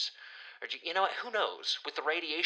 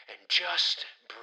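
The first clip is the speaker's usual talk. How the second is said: whispered, slow; slower than usual. Real, not acted. Calming himself after the spider rant, in a slow whisper. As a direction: breathe the words out to calm down. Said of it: "I need to back off".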